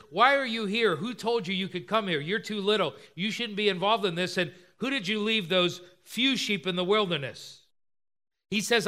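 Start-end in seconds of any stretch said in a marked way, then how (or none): 0.1-7.6 put-on mildly scornful older brother; belittling. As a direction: talk down to a little brother. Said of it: "He's belittling David".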